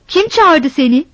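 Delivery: wife furiously driving her husband off; angry shout. Acted. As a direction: hurl the question at him.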